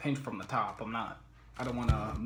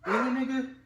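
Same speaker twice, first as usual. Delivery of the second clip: exasperated shout; 14 semitones higher, 8 dB louder than usual. Real, not acted. Interrupted while recording.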